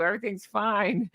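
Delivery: tense "Everything's fine" pushed through clenched jaw; through gritted teeth. Shown as a demonstration. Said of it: "You have to say it through gritted teeth like I do".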